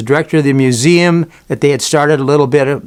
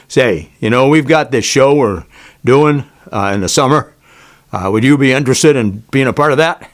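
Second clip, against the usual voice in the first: lightly imitated big man's voice; a hint of a big boxer making an offer; dropped voice. Board member recruiting him for the summer show, lightly imitated dropped voice. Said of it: "he just drops his voice down".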